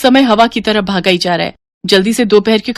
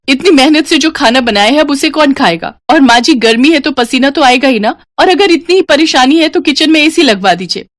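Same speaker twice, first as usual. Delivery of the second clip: angry outburst; 4 semitones higher than usual. Acted. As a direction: let it all burst out at last. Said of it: "वो गुस्से में कहती है".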